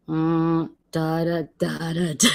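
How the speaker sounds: evasive humming. Retold or imitated. Acting out avoiding the question.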